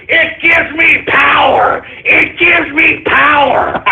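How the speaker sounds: slow shouted power-hungry gloat; villain gloat. Acted. Streamer feeding on troll hate, slow villain gloat. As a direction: relish the power, drag it out.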